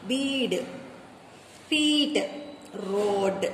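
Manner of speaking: first vowel long, second one silent in bead, feet, road; first vowel sounded. Shown as a demonstration. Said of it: "The first one does the talking". (bead, feet, road లో మొదటి అచ్చు మాత్రమే పలకాలి)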